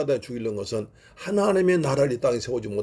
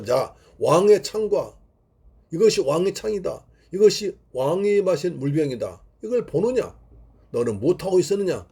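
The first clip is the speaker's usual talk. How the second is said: rebuking; 4 semitones higher than usual. Retold or imitated. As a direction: hold up the spear and scold him. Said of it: "라고 책망합니다". (창을 들어 보이며 가볍게 꾸짖는 말투)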